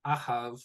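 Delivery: "Ahav" mis-stressed as A-hav, first syllable strong; front-stressed "Ahav", second syllable weak. Shown as a demonstration. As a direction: show the wrong stress, on the "A" of "Ahav". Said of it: "an incorrect way to pronounce".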